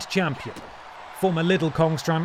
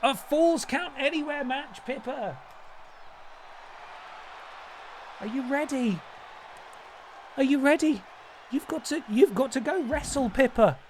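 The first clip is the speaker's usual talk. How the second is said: Gollum challenging; 9 semitones higher, 5 dB quieter than usual. Pretend. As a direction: goad the cat into the fight. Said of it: "he's challenging Pippa to a match".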